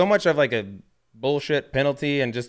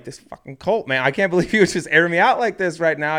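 higher, louder, half-laughing indignation; amused annoyance with a laugh; laughing outrage; 6 semitones higher, 5 dB louder than usual. Retold or imitated. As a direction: fake fury at a friend. Annoyed at being aired out.

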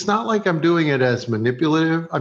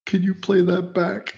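higher, slow, hopeful request; imitating eager actress; 6 semitones higher than usual. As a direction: ask shyly in a lifted mock voice. Retold actress asking for playback.

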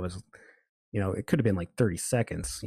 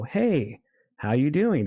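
friendly retold greeting; 4 semitones higher, slower than usual. Friendly greeting to an angry woman.

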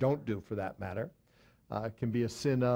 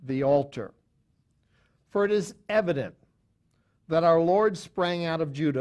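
measured, emphatic Bible reading, raised at the start; scripture reading; 3 semitones higher, 3 dB louder than usual. Real, not acted. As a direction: read the verse out to the congregation. Reads scripture aloud to the listeners.

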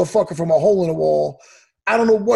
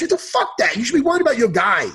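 indignant outburst. Real, not acted. Fighter telling off a coach before fight day, indignant. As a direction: pitch leaps, then a quick scolding.

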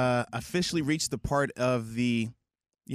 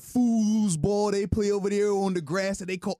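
slow, loud, scornful about soccer; mock indignant rant; 4 semitones higher, 3 dB louder, slower than usual. Cohost mocking soccer to the host, slow and scornful. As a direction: sneer at the other football.

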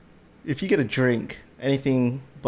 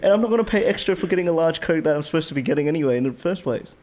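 exasperated rant; 5 semitones higher than usual. Retold or imitated. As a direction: still fuming about the Coke. Re-enacting his complaint.

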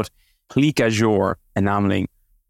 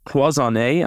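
Cloisonné with a nasal French vowel and rising end, French accent; attempted French accent; 3 semitones higher, slower than usual. Shown as a demonstration. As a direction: try your best French accent on Cloisonné. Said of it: "trying to do my best French accent there".

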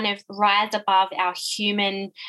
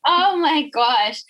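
excited; 6 semitones higher, 5 dB louder, much slower than usual. Real, not acted. Delighted reaction to praise.

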